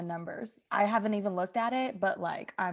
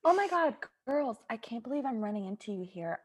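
gushing greeting. Acted. Gossip girl arrives.

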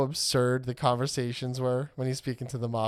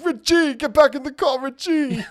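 much higher, louder mock shout, laughing at the end; shrill yelling woman; 12 semitones higher, 6 dB louder than usual. The honking woman yelling at Richie, mock shout. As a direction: screech at him like an angry driver.

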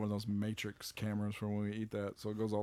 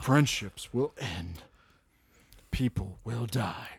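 slow, dramatic trailer narrator; movie trailer voice; slower than usual. Retold or imitated. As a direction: deliver it like an ominous movie trailer. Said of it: "trailer for this is like".

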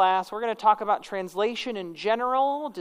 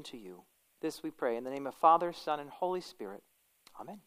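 prayer; 2 semitones lower than usual. Acted. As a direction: pray it gently and earnestly. Leads the class in prayer.

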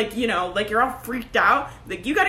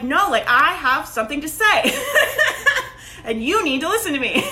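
powerful, insistent; 4 semitones higher than usual. Acted. Coach showing clients how to claim their power, forcefully insistent. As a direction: insist on being heard. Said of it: "by standing in your, your goddamn power".

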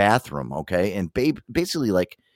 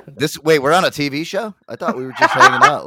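confused surprise; 2 semitones higher, 5 dB louder than usual. Retold or imitated. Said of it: "Aaron's like".

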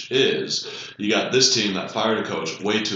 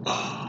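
soft, breath-only mock sigh; quiet exhaled sigh; imitated audible sigh; 6 dB quieter than usual. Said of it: "lets out an audible sigh".

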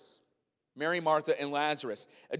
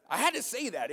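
laughing; 5 semitones higher than usual. Real, not acted. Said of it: "it makes me laugh every time".

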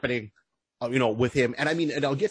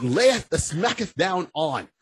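mock old English; 3 semitones higher, slower than usual. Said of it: "mock old English".

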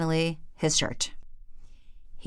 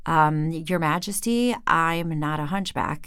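stuttered. Acted. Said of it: "he stuttered".

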